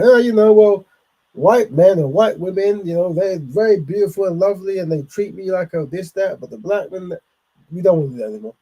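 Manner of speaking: high, loud, hammed-up gushing imitation; mocking a TV guest. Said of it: "going on T V and going".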